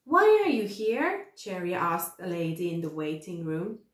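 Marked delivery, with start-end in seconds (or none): 0.0-1.3 put-on high, eager little-girl question; a lightly voiced young girl asking; curious child. Cherry asking a lady in the waiting room, curious.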